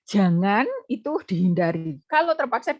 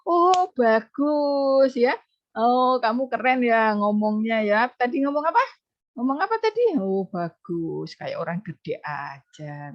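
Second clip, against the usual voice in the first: mock praise. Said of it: "di-reinforcement dengan hal yang mengiyakan".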